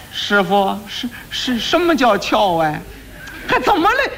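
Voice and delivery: 尖细的孩子嗓，带着笑，越说越高; 愣头徒弟着急追问，调门往上蹿; 糊涂小徒弟. Acted. 糊涂徒弟着急问师傅. (徒弟问师傅，孩子腔又急又笑)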